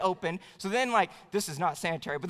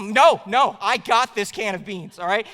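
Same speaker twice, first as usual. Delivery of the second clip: stubborn refusal; 6 dB louder, slower than usual. Retold or imitated. Refusing wife's offer of help.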